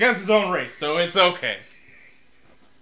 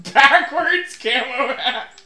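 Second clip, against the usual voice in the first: laughing; 6 semitones higher, 8 dB louder, slower than usual. Real, not acted. Laughing at hat options.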